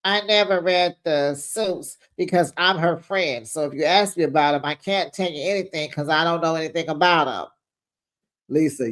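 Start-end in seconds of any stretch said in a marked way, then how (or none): 0.0-7.5 lightly voiced impression, quickening as it goes; hint of a put-on voice, hurried finish; Meredith. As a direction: lightly mimic a friend excusing herself, speeding up. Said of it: "So Meredith is like".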